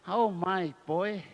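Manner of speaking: slow, fond coaxing; fond drawn-out call. Real, not acted. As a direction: stretch the words out lovingly.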